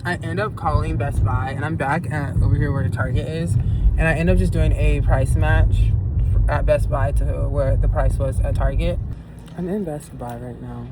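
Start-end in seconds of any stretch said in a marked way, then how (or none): 0.1-9.0 talking through a numb face; speech slurred by a numb mouth. Real, not acted. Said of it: "This side of my face is still numb".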